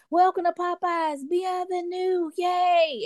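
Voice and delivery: high, excited clapping-line welcome; cheering welcome. Retold or imitated. Staff welcoming customers inside, excited high cheer. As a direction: cheer them in like a Soul Train line.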